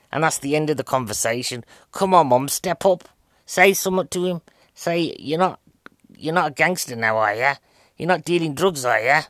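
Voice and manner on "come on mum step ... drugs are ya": higher-pitched, exasperated pleading; acted scolding, pitched up; exasperated urging. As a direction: urge her to step in and tell someone off. Urging the film's mum to intervene.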